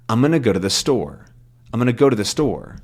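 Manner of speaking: "I'm gonna" and "to the" squeezed into one run; smushed together. Shown as a demonstration. Teacher showing the different sentence, smushed together. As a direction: run it together, landing on "store". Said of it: "you get this sort of very different sentence".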